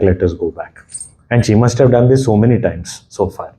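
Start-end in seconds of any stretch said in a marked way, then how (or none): 0.0-0.8 calming hush. Acted. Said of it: "calmed him down".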